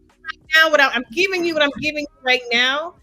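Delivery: heated, insistent pushback; real agitation in a debate; emotional. Real, not acted. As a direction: argue back, worked up. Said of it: "you don't have to be emotional".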